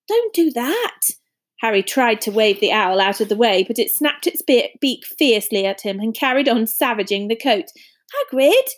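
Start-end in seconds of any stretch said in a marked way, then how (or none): 0.1-1.0 sharp, high cry at the owl; yelling to stop it; alarmed shout. Acted. Shooing an attacking owl. 8.3-8.7 calling a name loudly. A narrator's reading. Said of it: "said Harry loudly".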